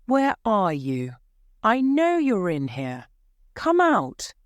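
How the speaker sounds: demanding the hidden man come out, pitch climbing sharply; calling out. Acted. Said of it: "then called out".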